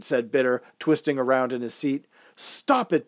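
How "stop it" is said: high-pitched but contained shout; mock shout without the volume; shouted order. A narrator's reading. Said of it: "Boss shouted".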